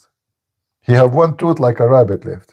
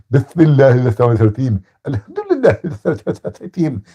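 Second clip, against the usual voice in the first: lisping mock chant without teeth; mock toothless recitation; slower than usual. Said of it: "do you think he say".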